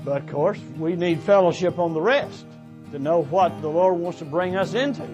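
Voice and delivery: ordinary delivery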